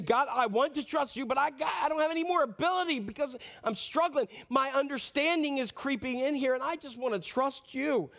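pleading prayer that strains upward; crying out to God. Acted. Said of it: "when we cry out".

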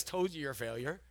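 Satan taunting. Retold or imitated. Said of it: "he says".

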